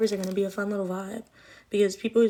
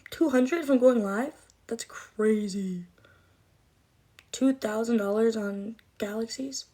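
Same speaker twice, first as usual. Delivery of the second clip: surprised; slower than usual. Real, not acted. Reacting to huge donation amounts.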